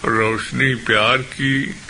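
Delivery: measured, declaimed Urdu verse; mushaira-style poetry recital; poem recitation. Acted. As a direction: recite it line by line with pauses.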